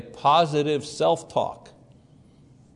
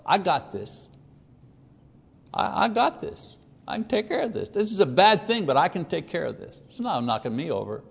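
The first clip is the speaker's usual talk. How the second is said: confident self-talk; 4 dB quieter than usual. Retold or imitated. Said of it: "saying to yourself".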